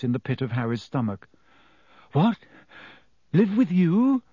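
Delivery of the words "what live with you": high, loud, disbelieving question; astonished. Acted. Harry hearing Black offer a home, astonished. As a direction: blurt it out in astonishment.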